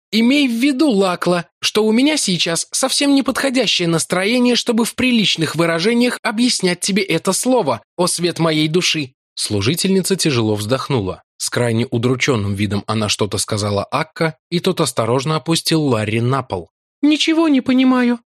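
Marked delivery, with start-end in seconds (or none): 0.1-9.1 higher, testy; Larry testily explaining to Lakla; irritated Irishman. A narrator's reading. 17.0-18.2 much higher, lost and helpless. A narrator's reading. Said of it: "беспомощно сказала она".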